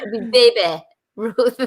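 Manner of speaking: playful put-on accent on "Baby Ruth"; a little accent. Shown as a demonstration. Host excusing the misspelt candy name, a little put-on accent. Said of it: "put a little accent on it".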